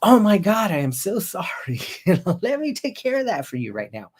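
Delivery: high, loud gushing start, staying high-pitched; hammed-up, high-pitched concern; overdone sympathy. Shown as a demonstration. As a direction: gush as a wrongly over-excited helper. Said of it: "you can't come back in with your language pattern being like".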